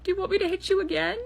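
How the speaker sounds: high, pleading near-cry; hammed-up teary squeak; mock tearful. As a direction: ask it high, as if welling up. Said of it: "Peter, also tearing up".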